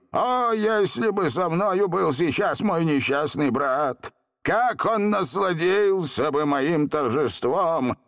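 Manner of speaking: slow, high lament; anguished cry. A narrator's reading. Genie missing his unhappy brother, anguished. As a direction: stretch it out with longing. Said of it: "выкрикнул при этом с тоской".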